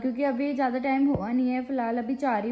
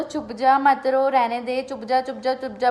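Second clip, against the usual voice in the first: retold hushing; 3 dB louder than usual. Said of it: "दस बार बोल दो".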